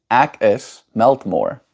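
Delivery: slow "Ak is Meltmore" with an open A; speaker's own pronunciation. Shown as a demonstration. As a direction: draw it out, "Ak" like "ack". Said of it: "where I would say".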